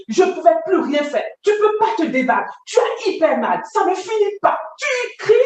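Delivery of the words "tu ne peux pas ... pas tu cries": high-pitched, urgent retelling; carried-away raised voice. Real, not acted. Survivor telling how the pain never ends, urgent raised pitch. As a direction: pitch leaping as she relives the pain. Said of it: "quand je parle fort".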